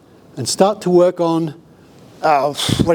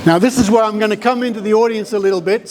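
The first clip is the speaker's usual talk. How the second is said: teacher voice; 4 semitones higher, faster than usual. Real, not acted. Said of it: "I'm gonna have to use my teacher voice".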